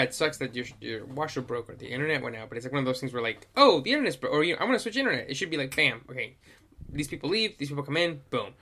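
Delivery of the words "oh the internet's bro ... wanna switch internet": mock customer complaint. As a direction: quickly act out a customer's complaint. Voicing a customer's minor complaint.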